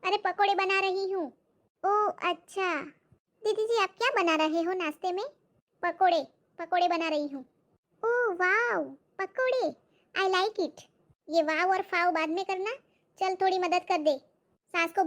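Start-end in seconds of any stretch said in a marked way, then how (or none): 1.8-10.8 excited maid. Acted. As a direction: gush over the pakoras as the maid.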